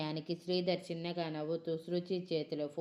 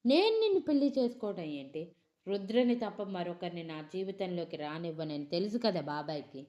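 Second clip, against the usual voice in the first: angry questions; 3 dB louder than usual. Acted. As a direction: accuse him hotly. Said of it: "అని కోపంగా అడిగింది". (కోపంగా నిలదీయడం)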